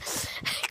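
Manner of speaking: quiet, breath-only chuckle; soft laugh. Real, not acted. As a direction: let out a small laugh at yourself. Laughs at herself.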